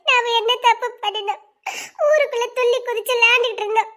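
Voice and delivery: tearful, despairing protest; worn down and weeping; crying. Acted. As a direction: plead through sobs. Despairing girl crying to her friend.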